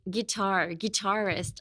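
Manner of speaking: "guitar" first, then "guitarist", slowly built up; careful pronunciation. Shown as a demonstration. Teacher tries the hard word guitarist for learners, careful pronunciation. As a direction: sound out "guitarist" slowly and softly. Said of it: "guitarist is hard".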